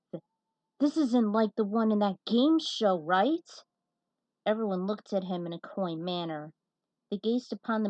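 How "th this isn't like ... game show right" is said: nervous stammer, a touch louder; a hint of fear, stumbling on the first word; mild terror. Jake asking the group nervously, mild mock fear. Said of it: "Jake asked in terror".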